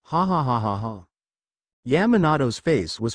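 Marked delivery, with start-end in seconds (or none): 0.0-1.1 hearty laugh. A narrator's reading. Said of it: "Hana then started laughing".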